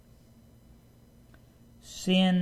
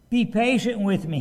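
begging servant; 6 semitones higher, 5 dB louder than usual. A narrator's reading. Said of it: "he begged".

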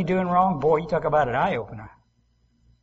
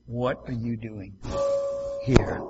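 mom voice; 6 semitones lower, 6 dB quieter, slower than usual. Acted. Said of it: "that voice comes and says, like Mom".

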